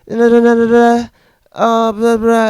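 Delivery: hint of a breezy girlfriend; mock brush-off. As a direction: wave it off with lazy nonsense. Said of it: "She's just like".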